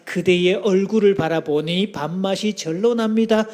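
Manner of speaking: warm greeting demo. Shown as a demonstration. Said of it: "이렇게 인사합니다".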